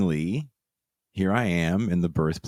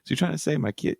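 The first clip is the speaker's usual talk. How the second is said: mildly shocked; 5 semitones higher, much faster than usual. Retold or imitated. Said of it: "now she's kinda shocked".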